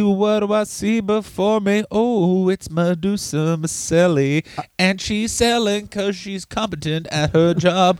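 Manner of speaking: slow, put-on lofty voice; pompous mock voice. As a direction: orate it like a smug intellectual.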